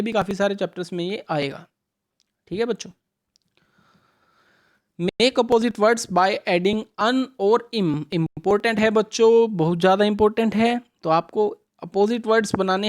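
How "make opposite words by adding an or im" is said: slow, deliberate reading of the question; slow read-aloud. Shown as a demonstration. Teacher reading the exam question to children, slow and clear. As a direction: read each word clearly for the kids. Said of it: "reads instruction slowly".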